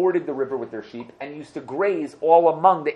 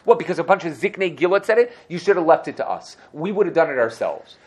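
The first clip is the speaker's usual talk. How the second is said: indignant challenge; 6 semitones higher, 3 dB louder than usual. Acted. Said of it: "they went up to him and said".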